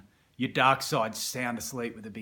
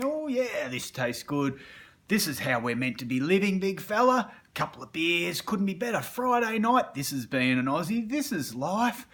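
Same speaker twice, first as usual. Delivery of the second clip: partying dark side; 7 semitones higher than usual. Retold or imitated.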